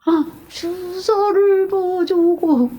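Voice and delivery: high, drawn-out mock whine; imitating a feeble, pleading complainer; whiny excuse. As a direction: whine the excuse, stretching every syllable. Repeats the acted injection excuse.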